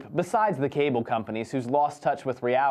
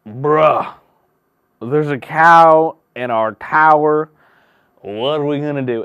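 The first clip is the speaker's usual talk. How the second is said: put-on old white man; 12 dB louder, slower than usual. Old white man voiced in story.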